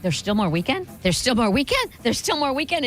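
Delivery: surprised. Retold or imitated. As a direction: disbelief building with each repeat. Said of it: "but I was like".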